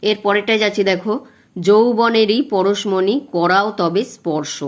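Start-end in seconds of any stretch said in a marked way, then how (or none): 1.7-4.6 slow verse reading, stress on যৌবনেরই; slow recitation. Shown as a demonstration. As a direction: recite slowly, leaning on the stressed beats. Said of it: "যেখানে তোমার শ্বাসাঘাত পড়বে".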